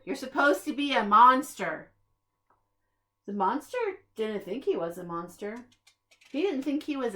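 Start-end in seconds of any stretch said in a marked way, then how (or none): 0.0-1.9 scolding. A narrator's reading. Group scolding the monster.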